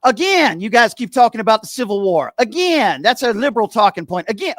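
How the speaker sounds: Steven caller voice. Acted. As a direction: sneer every again like a talking-point parrot. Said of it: "Steven got me going".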